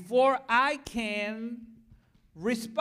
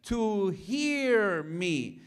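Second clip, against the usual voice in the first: raised, insistent wife's protest; 5 semitones higher than usual. Retold or imitated. Wife refusing to quit her job, insistent and raised. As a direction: push back hard, higher. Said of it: "She said".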